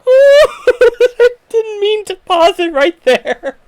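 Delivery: talking through laughter; laughing hard while speaking. Real, not acted. Laughing at paused face.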